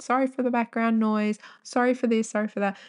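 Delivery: lightly mock the sorry routine; imitating apologetic man. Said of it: "like, said".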